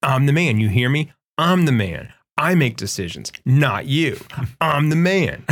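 playful mock fury retelling a movie scene; imitating an angry man. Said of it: "he's just so pissed".

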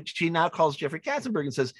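normal talking voice

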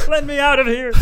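very high, loud trapped gnome. Acted. Trapped little fairy begging for freedom, high gnome voice. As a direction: cry out like a tiny captive creature. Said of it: "It's my gnome voice".

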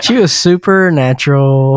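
laughing. Real, not acted. Teasing a misspoken word.

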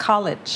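"college" ending in a brief -lidge; short final syllable. Shown as a demonstration. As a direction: model "college" with a short i at the end. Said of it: "สั้นๆเลยค่ะ".

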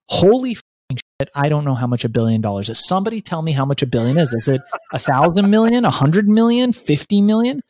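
fast, rising panicked rambling; half-joking retold panic, pitch climbing; mock panic. Panicked teen billionaire's thoughts.

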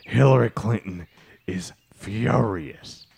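low, slow threat; menacing rival. Acted. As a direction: lean into the menace. Plays rival Bean Bro.

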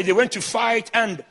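words broken by a cough. Real, not acted. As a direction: speak through a cough fit. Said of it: "Sorry. I'm coughing".

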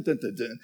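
imitated "dun dun dun" suspense sting; suspense music sting. Pastor imitating the background music as each sack opens, mock suspense sting. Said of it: "in the background you'd hear".

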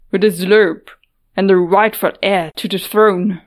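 commanding king, cold and firm; a stern ruler demanding answers. Acted. A ruler confronting intruders.

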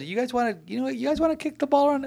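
mock condescending. Netherlands mocking the US.

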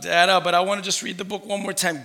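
put-on pleading child. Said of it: "And Jackson comes out".

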